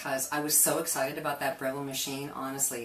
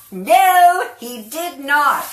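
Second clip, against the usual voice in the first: high, slow laughing denial; 9 semitones higher, 13 dB louder, much slower than usual. Real, not acted. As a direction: laugh it out slowly. Caught out about Scott.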